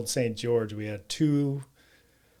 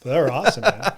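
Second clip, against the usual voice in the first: excited; 4 semitones higher, 14 dB louder, faster than usual. Real, not acted. Fond memory of Cubs games.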